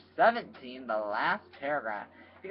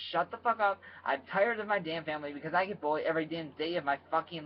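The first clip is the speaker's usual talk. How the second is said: retold yelling; 3 semitones higher than usual. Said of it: "Daryl, like, yelling".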